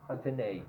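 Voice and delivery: antennae said an-TEN-ay, ay ending; Australian antennae. Shown as a demonstration. Teacher gives the Australian antennae. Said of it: "In Australia".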